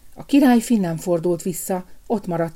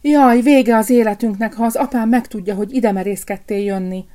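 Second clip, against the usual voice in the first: higher, louder cry of alarm; princess's panicked cry; frightened cry; 4 semitones higher, 6 dB louder than usual. A narrator's reading. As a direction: gasp out her fear for him. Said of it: "A királylány felsikoltott".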